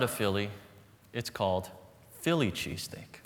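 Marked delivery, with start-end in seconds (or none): 2.2-3.2 hushed, like a guilty secret; mock whisper. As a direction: whisper the name as if it's taboo. Names the wrong dish, joking.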